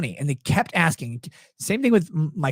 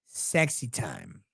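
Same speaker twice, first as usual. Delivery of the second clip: embarrassed mumble; 9 semitones lower, 9 dB quieter, much slower than usual. Retold or imitated. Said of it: "And he's like".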